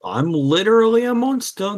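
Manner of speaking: high dramatic monster line; mock monster voice. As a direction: ham it up as the villain. Plays the Mantis monster.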